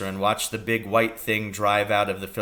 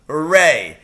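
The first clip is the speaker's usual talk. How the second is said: cheer; 6 semitones higher, 10 dB louder than usual. Acted. Father cheers the doctor's revenge.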